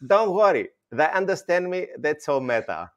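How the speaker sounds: put-on unbothered mother with a Greek accent; Gringlish accent. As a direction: imitate a Greek mum brushing it off. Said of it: "She goes".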